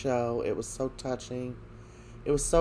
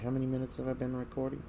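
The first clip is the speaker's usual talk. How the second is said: whispered aside; 7 dB quieter, much faster than usual. Real, not acted. Aside to someone off camera.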